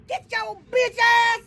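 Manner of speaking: high loud yell to chase it off; angry shout. Real, not acted. Yelling at the black cat to get away.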